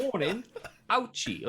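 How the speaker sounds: high laughing mock warning; mock doctors' warning. Retelling the doctors' warning, high and laughing. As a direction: repeat the silly warning, laughing. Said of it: "these two doctors goes".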